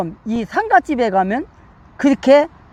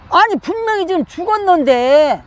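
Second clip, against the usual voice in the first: higher-pitched acted objection; incredulous protest; 5 semitones higher than usual. Preacher voicing mourners objecting to Jesus, incredulous protest.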